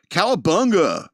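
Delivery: loud, emphatic headline announcement; headline shout. Shown as a demonstration. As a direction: belt out the headline word. Reading the headline loudly.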